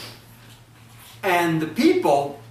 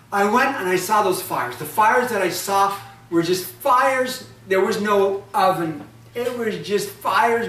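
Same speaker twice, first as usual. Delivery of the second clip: angry; 4 semitones higher, 4 dB louder than usual. Acted. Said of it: "the anger of the woman".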